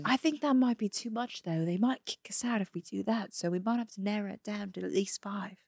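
put-on amateur Australian tourist accent. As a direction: put on a loose Aussie accent. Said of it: "do an Australian accent".

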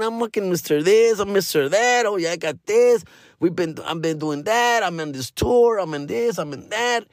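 lightly voiced boastful comic; mock bragging. Other comics bragging in the green room, mock boastful. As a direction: brag a little, half-mocking. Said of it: "we're flexing".

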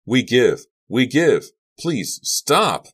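high, loud begging; desperate pleading. A narrator's reading. Bugner and Henderson give up, loud pleading. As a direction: cry surrender in a panic. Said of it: "pleaded Bugner and Henderson".

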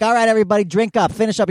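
high, projected call to the room; bartender hustling drinkers. Retold or imitated. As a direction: call out high to everybody in the bar.

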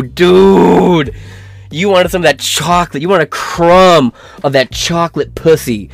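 incredulous outburst. Real, not acted. Reacting to the message with a loud, incredulous outburst. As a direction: explode in disbelief.

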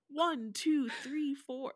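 lightly imitated Siri-like white voice. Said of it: "No one speaks like fucking Siri".

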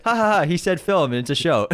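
imitating a private chuckle; mock self-chuckle. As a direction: chuckle through it as if to yourself. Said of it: "I always chuckle to myself".

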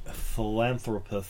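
put-on Tim Curry accent. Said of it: "now I'm talking like Tim Curry".

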